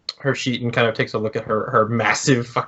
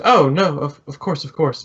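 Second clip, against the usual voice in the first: flustered woman's voice; 4 semitones higher than usual. Acted. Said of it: "And she goes".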